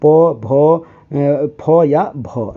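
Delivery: "प", "भ", "फ" voiced one by one, very slowly; slow demo of lip consonants "प", "फ", "भ"; lip sounds demo. Shown as a demonstration. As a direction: sound out "प, भ, फ" slowly and clearly for the class. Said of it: "ओठ से उसका आवाज़".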